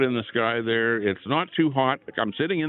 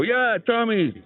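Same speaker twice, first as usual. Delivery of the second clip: imitating a fan; 11 semitones higher, much slower than usual. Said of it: "And they go".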